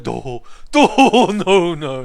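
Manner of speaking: high, loud, dim-witted refusal; dopey shy NPC voice. Pretend. Streamer voicing a shy game companion refusing to help, dopey high voice. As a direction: play a bashful simpleton saying no. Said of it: "He's gonna be like".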